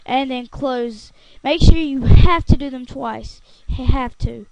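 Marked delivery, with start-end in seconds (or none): 1.4-4.5 "have to" loud and falling; stress on have to. Shown as a demonstration. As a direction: hit "have to" hard. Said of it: "It's a have to thing".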